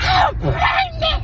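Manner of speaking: high drawn-out wail, retold; imitated bawling, very high and stretched. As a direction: wail it out as if bawling to your sister.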